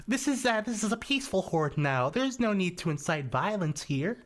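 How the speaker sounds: a playful take on a peaceful orc. Retold or imitated. Friend voicing the orc in my video, imitated. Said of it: "he was like".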